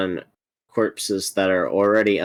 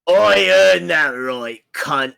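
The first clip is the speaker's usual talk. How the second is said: high, loud, slow retort; indignant shout; 9 semitones higher, 8 dB louder, slower than usual. Real, not acted. Player snaps back at friend's insult. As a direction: bark the retort.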